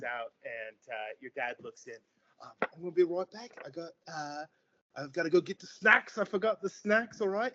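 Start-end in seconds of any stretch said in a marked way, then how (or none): 2.6-7.5 higher, breezy dad voice; dad fibbing brightly to the kids; cheerful otter dad. Acted. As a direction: cover the worry with a snack excuse. GM voices the father.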